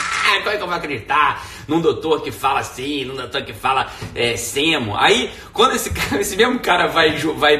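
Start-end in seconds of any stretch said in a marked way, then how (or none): 0.0-5.0 imitação leve de quem reclama, com "Ah" esticado; crítico escandalizado. Retold or imitated. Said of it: "o pessoal fala". (crítico indignado, levemente caricato)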